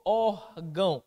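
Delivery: "órgão" split, with a held ór; first-syllable stress. Shown as a demonstration. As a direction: stretch the ór in "órgão". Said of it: "Paroxítona terminada em ão". ("órgão" separando o ór do gão)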